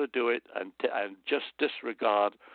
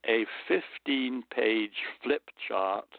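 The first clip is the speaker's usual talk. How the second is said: whisper; slower than usual. Real, not acted. Confessing his sales kit.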